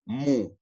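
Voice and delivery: "mu" with a full, clear U; overloaded U. Shown as a demonstration. Teacher showing students what to avoid, "mu" with a loaded U. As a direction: lean on the U in "mu". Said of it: "no vamos a cargar esa U".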